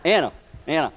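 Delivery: high, loud calls to stop hacking; calling out loud. Retold or imitated. Father yelling at his daughter that the snake is dead. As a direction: shout her name to make her stop. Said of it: "calling the daughter to stop".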